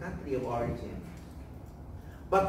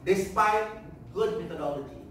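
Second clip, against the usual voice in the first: leading a repeat-after-me; 3 semitones higher than usual. Shown as a demonstration. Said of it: "can everybody say this?".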